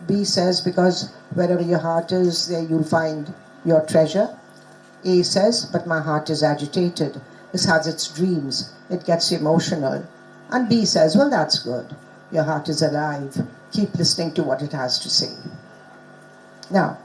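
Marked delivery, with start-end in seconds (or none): 0.6-4.3 reads B's line aloud, lower; a low, even read-through of the dialogue. Shown as a demonstration. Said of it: "I'll just read you". 5.6-10.0 reads A's line aloud, lower; a low, even read-through for the class. Shown as a demonstration. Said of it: "I'll just read you". 11.1-15.3 reads B's reply lower; a low, steady read-aloud of the dialogue. Shown as a demonstration. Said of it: "I'll just read you".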